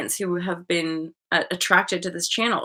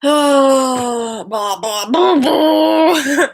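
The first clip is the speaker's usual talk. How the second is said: loud, higher laughing blah blahs; 7 semitones higher, 10 dB louder, much slower than usual. Real, not acted. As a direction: laughs through the tears. Laughing off her own tears.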